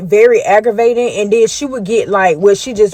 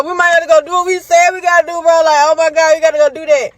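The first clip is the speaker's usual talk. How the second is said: much higher and faster, rising panic; frantic repeat; 7 semitones higher, faster than usual. Retold or imitated. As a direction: repeat it faster, losing your cool. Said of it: "He was like".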